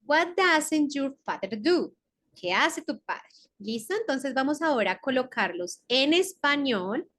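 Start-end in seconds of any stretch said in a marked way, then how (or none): 0.0-1.9 "What doesn't your father do?" said slowly; slow, clear model question; slow English model. Shown as a demonstration. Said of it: "Vamos a continuar".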